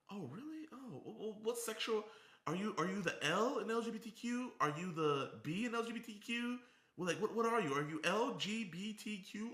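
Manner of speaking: mock hotline worker.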